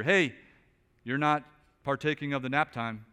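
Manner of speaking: lightly voiced challenger calling out; mock accusation. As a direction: playfully confront the teacher. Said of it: "charge the teacher".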